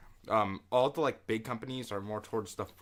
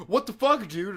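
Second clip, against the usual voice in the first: imitating a woman's high, loud outraged yell; angry yell; 11 semitones higher, 8 dB louder than usual. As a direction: squeal "what the fuck" way up and loud like the furious woman. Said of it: "And the woman's like".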